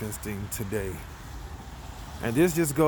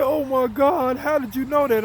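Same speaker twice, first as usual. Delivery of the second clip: high, louder retold disbelief; loud, high-voiced amazement in a quote; astonished outcry; 10 semitones higher, 4 dB louder than usual. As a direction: act out a stunned friend, pitched way up. Crying buddy astonished, retold.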